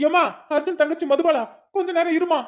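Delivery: high, near-crying plea to stop; tearful plea. Acted. Beaten man pleads with the woman to stop, close to tears.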